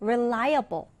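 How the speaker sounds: reliable stressed on LI; stress on second syllable. Shown as a demonstration. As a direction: hit the middle of reliable. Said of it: "단어 강세 유의해서 읽어볼까요". (reliable 가운데 음절 강세)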